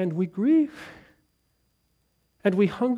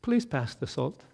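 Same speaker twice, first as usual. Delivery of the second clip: soft request; 5 semitones lower, 9 dB quieter than usual. Acted. Softly gentle table request.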